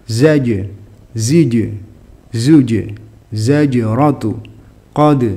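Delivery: crisp echo on the closing consonant; qalqalah bounce. Shown as a demonstration. Teacher demonstrates letters for students, bouncing final consonants. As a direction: recite each syllable with a short bounced final consonant. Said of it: "pantulannya juga biasa aja".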